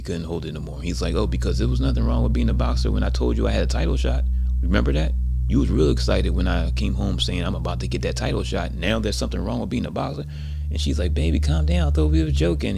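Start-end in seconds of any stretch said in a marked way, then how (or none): 1.1-10.2 louder, heated retold rant; venting. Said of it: "now he's kinda venting now". 11.1-12.8 high, loud acted wife; urgent placating. Wife urgently soothing angry husband, acted.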